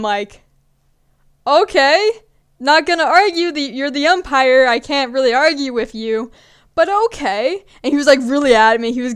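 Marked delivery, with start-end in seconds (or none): 1.4-7.6 grudging acceptance. Retold or imitated. Grudging reply to umpire.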